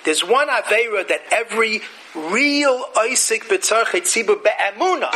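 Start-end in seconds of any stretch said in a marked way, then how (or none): 4.0-5.1 Be'emuna lifted in pitch and emphasized; stress on Be'emuna. Shown as a demonstration. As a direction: lean hard on the word Be'emuna. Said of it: "emphasize the word Be'emuna".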